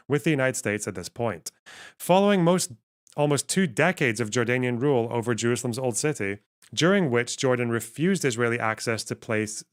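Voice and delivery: steady read-aloud voice; reading an article aloud. Acted. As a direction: read the passage out as text. Reads article text aloud.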